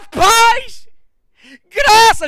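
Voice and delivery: high, very loud cries; acted shout. Preacher voicing a cry from the other side, loud high shout. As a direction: belt out each word. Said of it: "Pedro vem do outro lado e grita".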